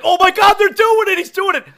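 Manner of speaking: high excited yell of disbelief; excited shout. Retold or imitated. Fan watching the game at home, shouting excitedly. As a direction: shout it like the winning shot just dropped. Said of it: "you kind of like".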